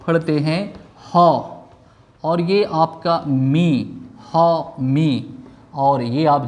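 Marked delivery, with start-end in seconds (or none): 1.1-1.3 हॉ said alone as one open syllable; correct pronunciation. Shown as a demonstration. Teacher showing the first syllable to students, हॉ sounded out alone. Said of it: "सही उच्चारण क्या है". 4.3-5.2 हॉ मी as two separate, clear syllables; syllable-by-syllable pronunciation. Shown as a demonstration. Teacher building the word for students, हॉ मी syllable by syllable. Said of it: "सही उच्चारण क्या है".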